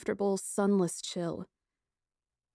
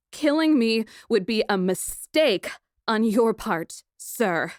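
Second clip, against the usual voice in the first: louder, haughty warning; imperious; 3 semitones higher, 5 dB louder than usual. Acted. Princess warning her captor, imperious and loud. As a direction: look down your nose at him. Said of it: "I crackled at him imperiously".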